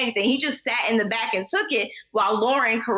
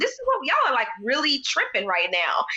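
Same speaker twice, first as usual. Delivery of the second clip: mock posh British accent, pitched up; lightly pitched-up British voice; 2 semitones higher than usual. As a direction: put on a prim British accent for a laugh. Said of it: "What was that accent?".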